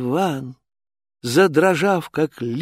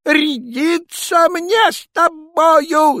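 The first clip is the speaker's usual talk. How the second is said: higher, louder slow roar; tsar shouting; 7 dB louder, much slower than usual. Acted. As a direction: bellow it in royal rage. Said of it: "закричал он".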